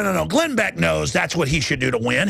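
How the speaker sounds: ordinary delivery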